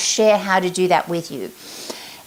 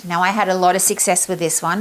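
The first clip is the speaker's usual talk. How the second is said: ordinary talk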